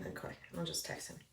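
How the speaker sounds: very soft, to oneself; quiet aside. Acted. Agent reaching voicemail, quiet aside to self. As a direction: drop it right down, almost no voice.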